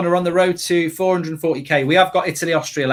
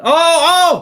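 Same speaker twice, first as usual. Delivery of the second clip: surprised; 13 semitones higher, 8 dB louder than usual. Real, not acted. Near miss on goal.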